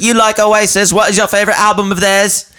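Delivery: high, fast nervous stranger impression; high mimic voice. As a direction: squeak it out like an awkward stranger. Mimicking the odd guy.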